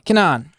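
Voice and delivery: "Kenan" pronounced keh-NAHN; last-syllable stress. Shown as a demonstration. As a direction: put the accent on the end of "Kenan". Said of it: "accent is always on the last syllable".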